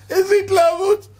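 high, loud, laughing exclamation; mock enthusiasm. Preacher mocking fans' fervor, high laughing exclamation.

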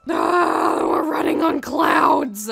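drawn-out, slow wail of alarm; mock panic. Player running on clouds, mock panic. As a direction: wail as if about to fall.

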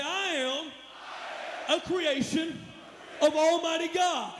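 rising to a loud, high finish; say it loud like a man. Shown as a demonstration. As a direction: boom it out like a grown man. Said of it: "Say it loud, not like a boy, but like a man".

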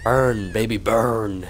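loud taunting cheer; gloating shout. Real, not acted. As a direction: crow over the burning enemy. Gloating as monster burns.

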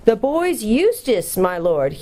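high, slow owl call; loud hooting owl. A narrator's reading. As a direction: hoot it slowly up high, then drop. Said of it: "hooted the owl as loud as it could".

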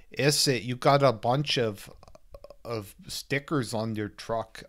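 put-on weak, hammy Hispanic accent; half-hearted imitation of a Hispanic accent; fake Hispanic accent. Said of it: "that's not a very good fake Hispanic accent".

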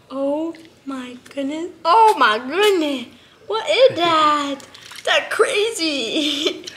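put-on high, slow cooing to a baby pet; baby talk. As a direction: coo at him like a tiny baby. Coos to monkey.

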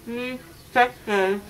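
talking through gauze; mouth full of gauze. Real, not acted. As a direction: mumble around gauze in the mouth. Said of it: "when that comes out of your mouth".

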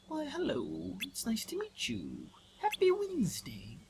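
high, soft little Piglet; squeaky timid piglet voice. Pretend. Voicing Piglet greeting Pooh.

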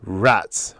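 understated scornful retort; a touch of scorn on one word. Acted. Narrator dismissing Hallowell's plea, mildly scornful. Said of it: "I said scornfully".

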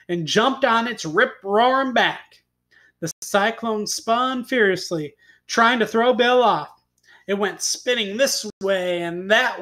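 animated tall-tale reading with punched words; expressive storyteller; story narration. A narrator's reading. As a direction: read it to children, leaning on key words. Reads a tall tale aloud.

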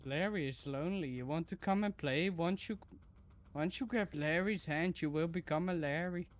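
put-on creepy singsong half Indian accent; lilting Indian accent, eerie. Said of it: "like, a half Indian accent?".

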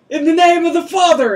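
high, loud retold baptizing cry; mock baptism proclamation. Acting out a mock beach baptism.

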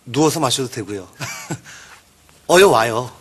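low, soft, flirty invitation; seductive. Acted. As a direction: lure them in, low and sultry. (낮고 은근하게 유혹하는 목소리)

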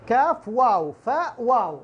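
each letter name drawn out slowly; spelling out slowly. Shown as a demonstration. Teacher spelling a word slowly for students. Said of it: "يعني أنت بتقرأ".

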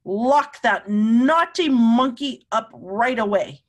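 angry. Acted. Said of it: "Professor Wiseman was terribly angry".

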